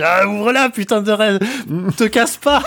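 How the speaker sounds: high, urgent plea; excited pleading. Retold or imitated. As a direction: beg it to open up. Voices own reaction in dream.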